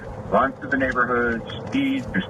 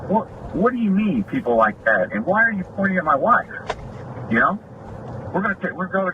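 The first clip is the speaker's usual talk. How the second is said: high, indignant protest, pitch jumping up; high, affronted "hold on a minute"; indignant retelling; 8 semitones higher than usual. Retold or imitated. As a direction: act out the outrage of hearing your wife insulted. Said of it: "and I'm like".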